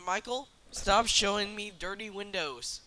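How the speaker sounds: slow, loud telling-off; calling out. Real, not acted. Calling out to Michael.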